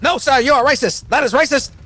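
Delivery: hammed-up "not your buddy" bit; cartoon Canadian. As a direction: do the South Park Canadian. South Park Canadian bit.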